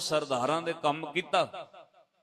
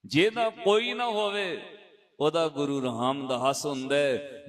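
emphatic repeat. Retold or imitated. Preacher repeating the elder's words to the sangat, firm and raised. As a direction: proclaim it as a promise to the congregation.

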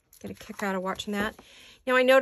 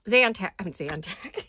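giggling; 3 semitones lower, slower than usual. Real, not acted. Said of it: "gonna have a case of the giggles".

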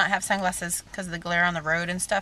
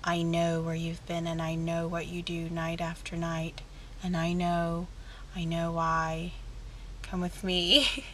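Trinity impression; 2 semitones lower, 10 dB quieter, slower than usual. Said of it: "I always feel like Trinity from The Matrix".

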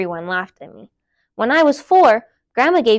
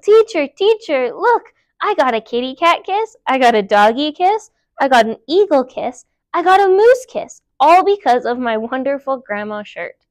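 excited yelling; 2 semitones higher, 4 dB louder than usual. Acted. Girl bursting into class to tell her teacher, excited yelling. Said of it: "ran inside and yelled".

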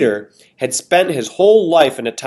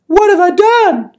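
high, loud and drawn-out wail; slower pleading; 7 dB louder than usual. Acted. Missus Molasses repeating her plea, slower and higher. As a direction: stretch it out, begging harder. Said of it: "She kept pleading".

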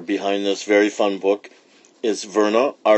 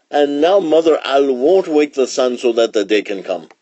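lively, higher-pitched royal pronouncement; lion king summing up; 5 semitones higher, 4 dB louder than usual. Acted. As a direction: chant the chain of blame to the council.

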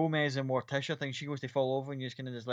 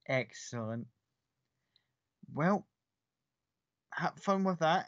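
gleeful; 4 semitones higher, slower than usual. Acted. Miranda surprised at the party's news, gleeful. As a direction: sound gleeful as you send them off. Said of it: "a weird sort of surprise and gleeful look".

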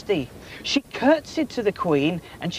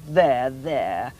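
lower, gentle "There, there"; soothing queen; 6 semitones lower than usual. A narrator's reading. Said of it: "The queen said".

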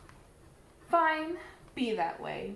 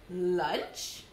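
sly cat; 5 semitones lower than usual. Acted. Cat mishears name.

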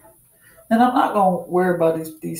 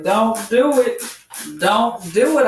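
emphatic warning; 4 semitones higher than usual. Real, not acted. Warning viewers about wet hair.

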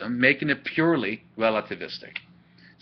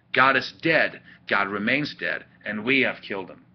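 dramatic literary reading; 2 semitones higher than usual. Acted. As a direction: recite emphatically, then let the ending drop grimly. Reads the speech to its close.

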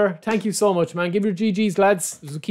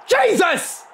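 exasperated; 11 semitones higher than usual. Real, not acted. Reacting to a bad pull.

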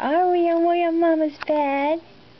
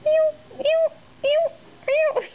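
mock meow; 10 semitones higher, slower than usual. Meowing at the cat.

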